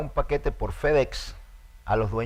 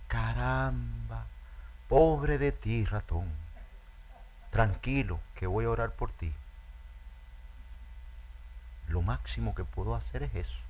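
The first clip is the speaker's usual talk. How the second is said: a lightly voiced lamb offering prayers; a hint of a sanctimonious lamb; indifferent lamb; 7 dB quieter than usual.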